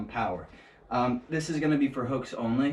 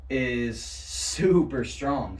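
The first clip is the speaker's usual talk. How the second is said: slow, drawn-out stoner drawl; surfer stoner voice; much slower than usual. Acted. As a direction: stretch it out like a dazed surfer. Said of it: "I did it again".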